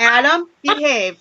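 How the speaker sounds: put-on lightly stern mom calling a child to order. Shown as a demonstration. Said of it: "That's my mom voice".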